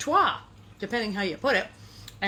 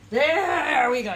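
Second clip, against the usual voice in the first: slow, louder triumphant "there we go"; 4 semitones higher, 6 dB louder, much slower than usual. Real, not acted. Baking host pleased the batter is out, slow and proud. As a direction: stretch it out proudly as the cake comes free.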